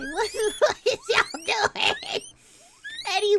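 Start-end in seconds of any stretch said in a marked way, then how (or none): 0.0-1.9 laughing disbelief. Retold or imitated. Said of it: "I was like".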